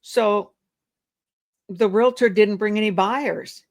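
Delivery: gently mirror the seller's words; sympathetic repeat. Shown as a demonstration. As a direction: echo the seller's complaint back with concern. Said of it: "So we'll repeat what they said".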